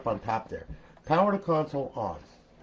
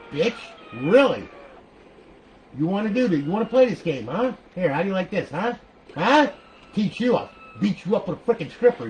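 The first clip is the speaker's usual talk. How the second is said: loud, higher, playful trash talk at the game character; mock taunt; 5 semitones higher, 5 dB louder than usual. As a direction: goad the character like a mock brawl.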